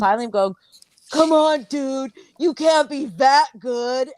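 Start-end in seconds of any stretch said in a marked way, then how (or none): 1.1-4.1 mock yell. Guest yelling through the wall at noisy friends. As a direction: bellow through the wall at the couple. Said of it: "he's, like, yelling at us".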